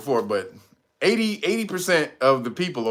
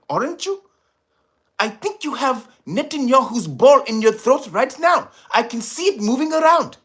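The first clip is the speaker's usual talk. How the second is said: mock president voice; 8 semitones higher than usual. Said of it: "I'd have told him".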